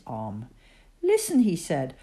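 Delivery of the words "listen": Teddy Bear's voice. A narrator's reading.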